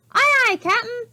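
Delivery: high, loud eager pirates' reply; eager pirate crew. A narrator's reading. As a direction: snap to answer the captain. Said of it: "they answered".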